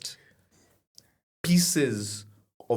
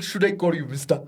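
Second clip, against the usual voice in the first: put-on Ugandan accent; 4 semitones higher than usual. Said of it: "and his accent".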